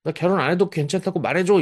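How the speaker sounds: put-on high, whiny teen voice; middle schooler. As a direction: plead with mom like a defiant adolescent. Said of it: "중학생인 거예요, 중학생".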